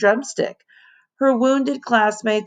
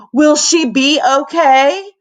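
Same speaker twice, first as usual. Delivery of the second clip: worried question; 7 semitones higher, 6 dB louder, slower than usual. A narrator's reading. Worried classmate at nurse's.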